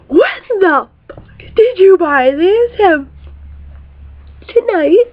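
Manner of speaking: mock shock. Shocked reaction retold.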